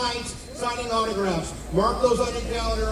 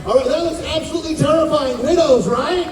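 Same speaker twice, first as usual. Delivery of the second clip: excited; 4 semitones higher, 4 dB louder than usual. Real, not acted. Host reacts to scary maze.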